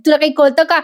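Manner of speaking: lightly acted exasperated aunt; acted scolding. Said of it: "त्या बाईला खूप बोलतात".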